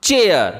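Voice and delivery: teacher modelling चेयर, rising then falling; ai pronounced ए. Shown as a demonstration. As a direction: say चेयर with a long ए before the final r. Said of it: "एआई का उच्चारण ए की तरह".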